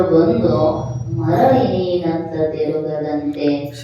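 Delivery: slow, measured scriptural chant; verse recitation. Acted. Preacher quotes a saint's verse on countless births, slow verse recitation. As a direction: recite the verse with drawn-out phrases.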